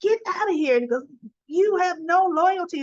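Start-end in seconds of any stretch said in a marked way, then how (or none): 0.0-0.7 high, loud mock shout; sharp refusal. Spencer refusing his father, mock yell. 1.5-2.8 high, loud mock shout; sharp refusal. Spencer refusing his father, mock yell. He's just yelling at Nicholas.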